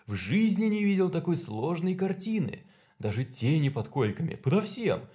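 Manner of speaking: high, loud, rapturous doctor; enthusiastic psychiatrist. Acted. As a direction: gush with delight over the madness. Psychiatrist raves in delight.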